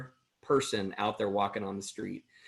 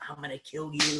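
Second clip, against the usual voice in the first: retold threat; 5 semitones higher than usual. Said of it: "like this, just going like this".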